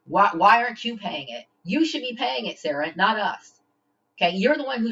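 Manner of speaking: indignant shout at Sarah; angry outburst. Real, not acted. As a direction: demand the money, voice rising. Angry confrontation over unpaid money.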